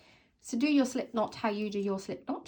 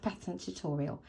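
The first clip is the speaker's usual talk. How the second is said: hoarse, sore throat voice; talking through a sore throat. Real, not acted. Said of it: "Sorry about the sore throat".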